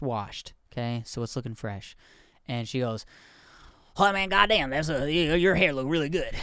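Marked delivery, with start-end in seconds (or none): 4.0-6.3 hint of the woman's accent, amused; lightly imitated accent of a stranger on the street. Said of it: "recreate her accent and how she spoke".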